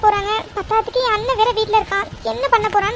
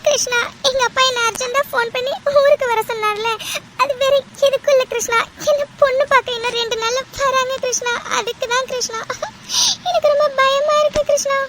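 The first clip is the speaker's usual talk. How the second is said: frightened, sobbing confession on a call; tearful. Acted. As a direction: pour out the fear through acted tears. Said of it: "கால் பண்ணி அழுதுட்டு இருக்க". (அழுதுகொண்டே பயத்துடன்)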